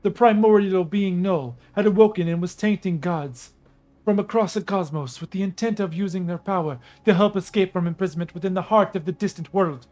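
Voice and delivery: regal storyteller goddess; lightly voiced proud princess. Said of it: "I gotta do a Nubian female goddess voice".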